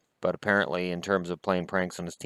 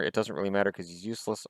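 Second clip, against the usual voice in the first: mock reading; 6 dB quieter, faster than usual. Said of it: "Oh, I'm sorry. That's not what it says".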